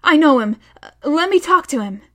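put-on a girl facing her killer, thin and strange. A narrator's reading. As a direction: force calm through a tight thin voice. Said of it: "in a strange, thin voice".

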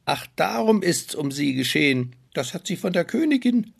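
high, loud frantic dwarf cries; panicked dwarfs. Acted. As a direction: panic over the fallen girl. Dwarf realizes cause.

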